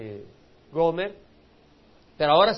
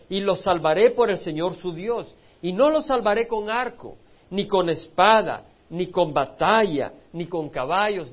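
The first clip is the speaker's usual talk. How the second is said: louder, each phrase hammered out; emphatic proclaiming; 6 dB louder than usual. Acted. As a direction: proclaim it like a preacher from the pulpit. Preacher proclaims scripture emphatically.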